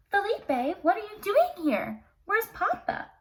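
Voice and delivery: lightly voiced worried Belle; worried call. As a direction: call out for Papa in alarm. Belle alarmed finding horse.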